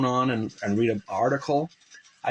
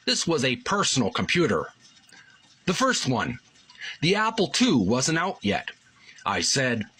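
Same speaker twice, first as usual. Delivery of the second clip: article reading voice; 2 semitones higher than usual. Acted. Reads book article aloud.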